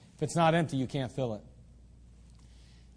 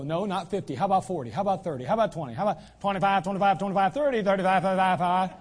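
haggling with God; 4 semitones higher, 4 dB louder than usual. Pretend.

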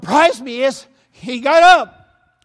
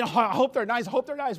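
nervous thought; 4 semitones lower, 7 dB quieter, faster than usual. Retold or imitated. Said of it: "I'm thinking".

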